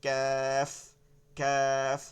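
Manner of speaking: "ক্যাফ" drawn out on a level thin vowel; light and thin. Shown as a demonstration. Teacher drilling the thin letter, light and thin. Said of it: "চিকন হবে".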